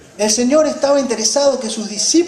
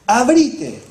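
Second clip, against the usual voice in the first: command; 3 semitones higher, 4 dB louder than usual. Retold or imitated. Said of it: "Una orden".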